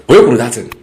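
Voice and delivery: shouting the question at this guy; retold shout. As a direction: yell it like an angry onlooker. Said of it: "you go shout".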